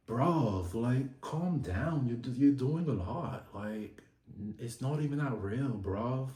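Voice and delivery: loosely imitated British bloke accent; amateur British accent. Recapping Charlie telling his rival to calm down, amateur British accent. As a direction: try a rough, casual British accent. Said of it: "My accent probably ain't even that good".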